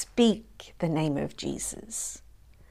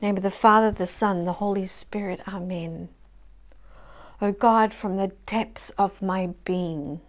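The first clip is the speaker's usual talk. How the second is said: closing prayer. Acted. Leading the congregation in a closing prayer, earnest and tender. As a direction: pray aloud with sincere devotion.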